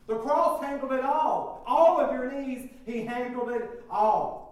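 rising sermon cadence building to fervor; preaching. Acted. Preacher urging the church to surrender. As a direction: preach it to the congregation.

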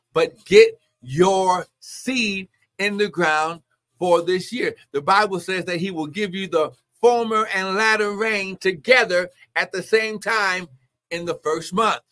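urgent, emphatic pulpit exhortation; forceful preaching. Real, not acted. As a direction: press every word on the congregation.

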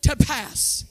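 preaching with fire to the congregation; full-force preaching. Acted. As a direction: drive it home like a revival sermon.

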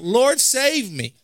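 mild acted cry for rescue, slowly. Preacher voicing Peter beginning to sink, crying out. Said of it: "cried out".

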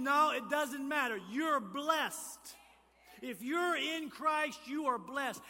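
high, very loud insistence; emphatic preaching. Real, not acted. Preacher overruling a doubter, loud emphatic insistence. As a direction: drive it home at full force.

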